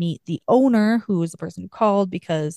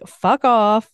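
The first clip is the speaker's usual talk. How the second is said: louder, sharp mock snap; angry retort; 4 semitones higher, 5 dB louder than usual. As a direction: retell his jealous outburst with some heat. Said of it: "he gets all angry".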